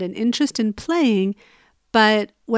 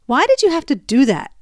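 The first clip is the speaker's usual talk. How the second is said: mock angry demand, a bit louder; barked angrily; 4 semitones higher, 4 dB louder than usual. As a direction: imitate the husband's irritation. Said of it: "he barked angrily in the bedroom".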